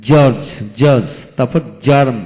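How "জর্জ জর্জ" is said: slow demo word. Shown as a demonstration. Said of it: "তারপরে".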